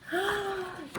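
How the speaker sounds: high, soft intake of breath; gasp. Acted. Storyteller sees who comes back, soft surprised gasp.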